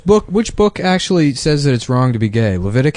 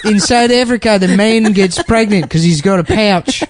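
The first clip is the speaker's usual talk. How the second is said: bad South African accent; 5 semitones higher than usual. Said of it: "our version of the South African accent".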